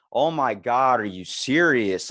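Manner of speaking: loud exasperated complaint. Retold or imitated. Impatient man in the queue complaining loudly about the slow woman, exasperated. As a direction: huff it out loud so she hears it. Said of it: "Like, out loud so she can hear it".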